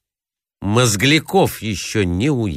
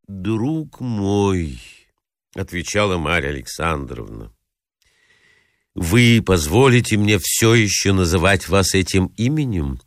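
painfully soft. Acted. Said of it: "Голос ... был болезненно мягкий".

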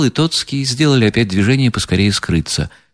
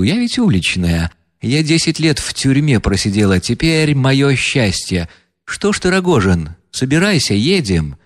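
higher, defiant woman's voice; reckless proud heroine; 4 semitones higher than usual. Acted. Настасья Филипповна бросает вызов гостям, дерзко и гордо. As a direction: fling it at them, reckless and proud. Reader voices Nastasya Filippovna.

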